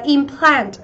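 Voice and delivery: "implant" slowly, as im-PLANT; stress on second syllable. Shown as a demonstration. Teacher modelling the verb, slow "implant" stressed on the second syllable. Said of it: "nó sẽ là trọng âm giêm tiếp thứ hai".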